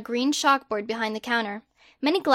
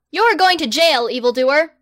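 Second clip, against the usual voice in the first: loud, grand, self-important; pompous boy wizard; 3 semitones higher, 7 dB louder than usual. Acted. Harry the Great loftily turning down a survey, loud and pompous. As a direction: proclaim yourself like a hero.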